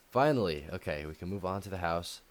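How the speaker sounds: slightly breathless; winded from walking around; out of breath. Real, not acted. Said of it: "I'm, like, getting out of breath here".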